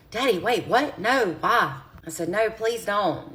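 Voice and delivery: high, frantic begging, slowing on please don't; panicked pleading. Retold or imitated. Daughter on the phone begging her dad, panicked and high. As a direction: beg him not to hang up.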